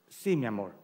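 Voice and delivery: mild, low, placating reply; sumiso. Acted. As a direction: give in gently, voice dropped. Calms down when trouble starts. (sumiso y conciliador, en voz baja)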